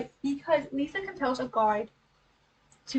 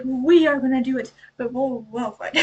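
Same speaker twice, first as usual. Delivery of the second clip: mock defiant hounds; 6 dB louder than usual.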